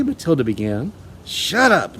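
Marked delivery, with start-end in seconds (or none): 1.2-2.0 loud, higher barked order; father silencing his daughter; shouted. A narrator's reading. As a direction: cut the child off sharply. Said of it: "father shouted".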